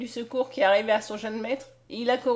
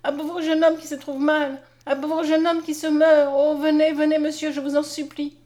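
raised, urgent plea for help; crying out; 5 semitones higher, 6 dB louder than usual. A narrator's reading. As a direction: plead higher and louder, on behalf of someone dying. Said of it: "s'écria Mariette". (supplication pressante, voix haute et forte)

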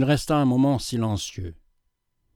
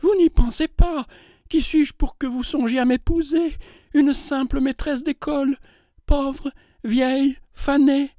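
much higher and louder protest; 13 semitones higher than usual. A narrator's reading. Schoolmistress protesting she is too poor and old, higher and louder. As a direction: cry out, slowing on pauvre, vieille. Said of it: "puis plus haut".

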